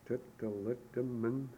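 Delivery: "Tuttalitaman" slowly, every vowel an uh; five uh sounds. Shown as a demonstration. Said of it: "Five uh sounds".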